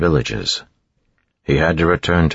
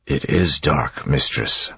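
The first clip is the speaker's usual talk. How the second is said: muffled voice; slower than usual. Acted. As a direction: speak as if through fur. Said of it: "in his muffled voice".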